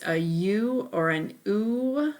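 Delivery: U as its letter name, then a drawn-out oo; stretched U and oo; long U sounds. Shown as a demonstration. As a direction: show both long U sounds, U and oo. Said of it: "Those are the long vowel sounds".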